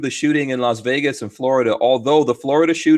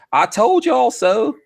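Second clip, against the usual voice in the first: high, drawn-out mock crowing with a laugh; Yankee Marshall impression; 9 semitones higher, slower than usual. Host imagines him gloating over being proved right, playful impression. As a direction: stretch it out high, laughing at the end. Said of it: "was that a good Yankee Marshall impression".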